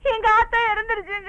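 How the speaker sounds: crying out the bad news; tearful wail. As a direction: wail it through tears. Daughter announces her mother's death. (அழுதுகொண்டே கதறல்)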